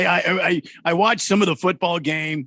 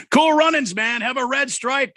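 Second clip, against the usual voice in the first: mock Jamaican accent; 5 semitones higher, 4 dB louder than usual. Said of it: "the Jamaican accent".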